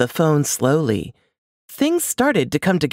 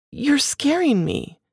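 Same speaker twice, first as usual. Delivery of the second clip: frightened wife; 12 semitones higher than usual. A narrator's reading. Wife frightened by husband's words.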